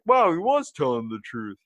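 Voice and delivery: high, loud mock amazement; amazed listeners. Imagining listeners who now believe the story, mock surprise. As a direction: exclaim it like an astonished audience. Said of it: "Now everybody out there is like".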